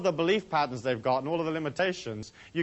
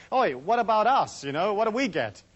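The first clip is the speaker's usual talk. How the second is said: lightly acted heckle, pitched up at the start; a hint of an aggrieved commoner demanding a share; mock villager protest; 4 semitones higher, 3 dB louder than usual. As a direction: call out like a villager at the door. Villagers banging on monastery door.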